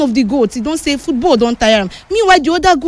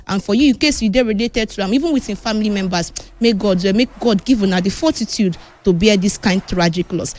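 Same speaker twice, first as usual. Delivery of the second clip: lower, subdued and consoling; condolence; 5 semitones lower than usual. Real, not acted. Host consoles the player's bereaved family, solemn condolence. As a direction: offer sympathy to the grieving family.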